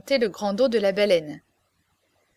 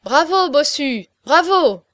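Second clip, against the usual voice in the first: loud, higher, slow cheer; cheering crowd; 4 semitones higher, 7 dB louder, slower than usual. A narrator's reading. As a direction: cheer him on with delight. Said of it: "Cent voix crièrent à la fois".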